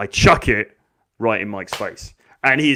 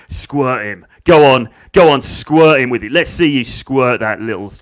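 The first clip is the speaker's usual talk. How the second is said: loud, insistent egging on; hammed-up loud taunting; goading the bully; 8 dB louder than usual. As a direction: play a girl cheering on the attack. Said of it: "now she's saying to Mike".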